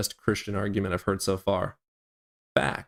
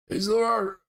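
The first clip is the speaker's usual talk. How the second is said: Trump impression; 13 semitones higher than usual. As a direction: ham up a cartoonish Trump bragging. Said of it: "I can't do a Trump impression".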